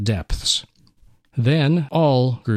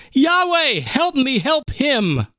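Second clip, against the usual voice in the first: desperate prayer; 12 semitones higher, slower than usual. Acted. Son crying out to God.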